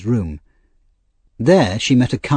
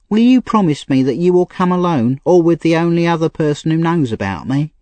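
put-on higher, pleading young woman; Nancy, street girl; 7 semitones higher than usual. A narrator's reading. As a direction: voice a desperate young thief girl. Nancy voiced.

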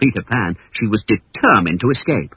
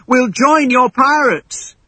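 put-on higher, slow, anxious boys' voices; hasty; 13 semitones higher, 5 dB louder, slower than usual. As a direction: hurry to agree in fright. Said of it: "cried John and Michael hastily".

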